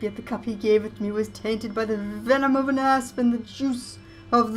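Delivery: high, loud, slow spectral wail; ghost voice. Acted. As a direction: moan it like a wronged ghost. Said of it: "ghost voice".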